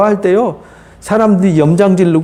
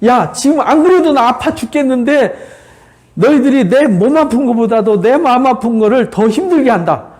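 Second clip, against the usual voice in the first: higher-pitched, mildly exasperated protest; indignant reproach; 5 semitones higher than usual. Acted. Job rebukes friends who came to comfort him, indignant reproach. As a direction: reproach them in a raised pitch.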